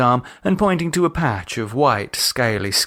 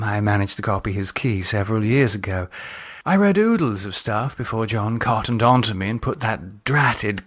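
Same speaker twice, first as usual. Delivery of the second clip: sly Lydia. Acted. Lydia boasts to Gerald about copying the key, sly. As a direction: confide a naughty secret.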